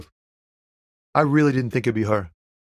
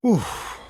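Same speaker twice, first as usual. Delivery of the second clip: high, falling oof; oof, as after a scare; startled oof; 7 semitones higher than usual. Acted. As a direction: breathe out a high oof of shock. Startled, almost a heart attack.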